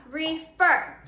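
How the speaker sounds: "refer" sounded out in two clear, firm syllables; "refer" pronounced emphatically for a class; said out loud. Shown as a demonstration. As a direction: say "refer" loudly as re-FER, both syllables distinct. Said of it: "let's say that word out loud".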